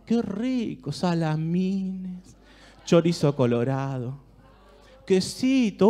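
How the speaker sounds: savouring, drawn-out storyteller voice; mouth-watering guided visualization; guided imagery. Acted. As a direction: paint the tray of food slowly so they can taste it. Guided imagery of a food tray.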